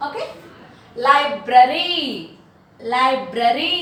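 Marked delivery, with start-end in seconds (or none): 1.1-3.8 లైబ్రరీ with a long rising ee; teacher's emphatic లైబ్రరీ, ending in ee; stressed E sound. Shown as a demonstration. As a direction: hold the final ee of లైబ్రరీ. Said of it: "ఈ sound".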